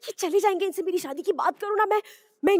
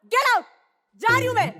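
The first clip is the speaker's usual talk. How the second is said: high, raised-voice fury; acted angry outburst; 5 semitones higher, 4 dB louder than usual. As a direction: snap it out high as you storm off. Acted quarrel, wife storms out. (ग़ुस्से में ऊँची आवाज़)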